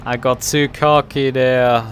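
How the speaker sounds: real frustration. Real, not acted. Sim racer just beaten by the Beamer driver, frustrated and loud. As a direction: groan and curse loudly at being beaten.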